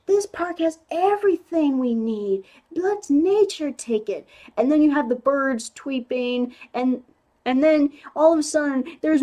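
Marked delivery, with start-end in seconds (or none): 0.0-4.2 lightly imitated sweet reassurance, pitched higher; mock a naive nature lover, slowing at the end; higher, mildly sugary soothing; Andy's sweet naive voice. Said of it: "very sweet, like, naive voice".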